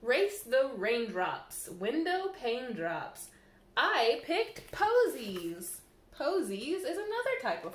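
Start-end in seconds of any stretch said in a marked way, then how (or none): 0.0-5.8 slow, lilting read-aloud; gentle picture-book line; storybook reading. Acted. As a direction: read it sweetly to the kids.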